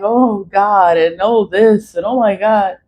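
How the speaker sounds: a hint of a frightened churchgoer; mocking pious. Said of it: "they're like".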